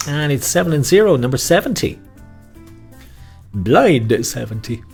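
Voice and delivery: calling out bingo numbers; bingo caller. Acted. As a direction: announce it like a bingo hall.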